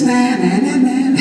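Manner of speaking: high playground-style jeer; playful sing-song gloating; mock taunt. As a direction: chant it high, teasing in triumph. Taunts the inner voice after remembering.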